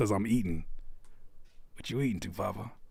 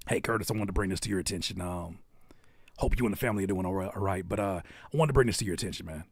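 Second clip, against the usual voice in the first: mock polite DM; 6 semitones lower, 5 dB quieter, faster than usual. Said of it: "DMs always scare me".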